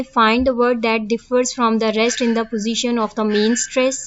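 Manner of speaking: reading the definition word by word, slowly; slow dictation. Acted. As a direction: dictate it slowly so students can copy. Reads question slowly. (धीमे-धीमे लिखवाते हुए पढ़ना)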